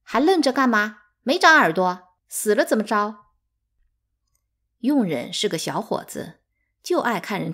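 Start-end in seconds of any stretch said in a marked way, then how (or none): 0.0-3.3 loud, high scolding of a servant. A narrator's reading. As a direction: bark orders at the servant. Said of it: "对佣人斥骂道". (大声斥骂佣人)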